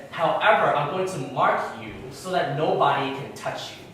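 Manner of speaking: loud, emphatic pronouncement as God; God's decree. Retold or imitated. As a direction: proclaim it like a retold decree from God. Voicing God's decree to Cain.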